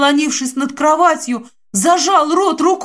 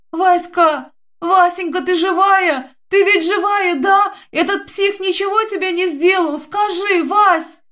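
выше, с отчаянием, срываясь на крик; будто трясёт подругу и боится, что та мертва; испуганный зов; 6 semitones higher than usual. Acted. Подруга в панике зовёт Васю. (испуганно, срываясь на крик)

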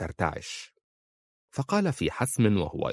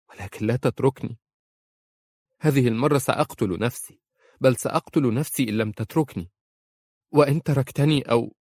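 desperate pleading; 5 semitones higher, 4 dB louder than usual. Acted. She pleads desperately with him.

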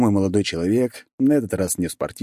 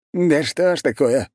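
slow, higher-pitched musing; pensive puzzlement; 8 semitones higher than usual. A narrator's reading. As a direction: wonder aloud, drawing it out. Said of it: "задумчиво молвил он". (задумчиво, растягивая слова)

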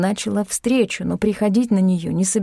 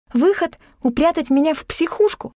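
indignant disbelief; 8 semitones higher than usual. A narrator's reading. Heroine retorts in disbelief.

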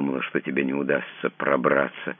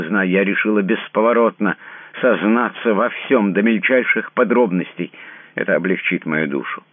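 louder and higher, unyielding; firm resolute declaration; 5 semitones higher, 5 dB louder than usual. A narrator's reading. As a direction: she commands him to confess. She declares her resolve.

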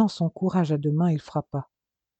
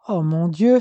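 alarmed cry, louder; shocked gasp; 6 dB louder than usual. Acted. Mother learns the children took the car, alarmed. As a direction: react to terrible news.

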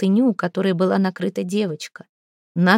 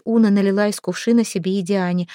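ordinary delivery, nothing marked

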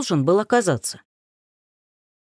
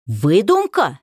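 voice breaking; slower than usual. Acted. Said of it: "Голос сорвался".

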